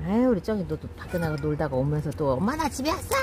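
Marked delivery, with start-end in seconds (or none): 2.3-3.2 lightly voiced cat, slightly higher; voicing the cat. Owner voicing her cat's babbling homecoming, mild cute voice. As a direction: speak for the kitten coming home. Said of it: "옹알옹알 하면서 또 들어오네".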